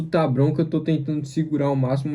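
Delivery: holding back hiccups; suppressing hiccups. Real, not acted. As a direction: talk while fighting hiccups. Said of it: "eu tô com soluço".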